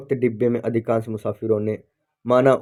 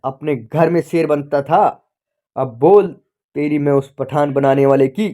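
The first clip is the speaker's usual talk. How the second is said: taunting shout; 2 semitones higher, 3 dB louder than usual. Acted. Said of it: "बाबू चिल्लाए जा रहा था".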